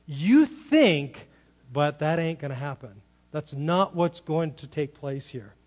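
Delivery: "You think" hit loud, then a pause before "but"; firmly contradict, leaning hard on "You think"; emphatic statement. Retold or imitated. God corrects Abraham's assumption, emphatic statement. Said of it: "a very emphatic statement of God saying".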